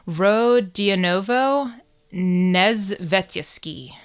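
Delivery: slow, careful go at "Rodionovo Nezvetysky"; committed Russian place-name. Real, not acted. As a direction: sound out "Rodionovo Nezvetysky" syllable by syllable, going all in. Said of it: "I love how you went into it".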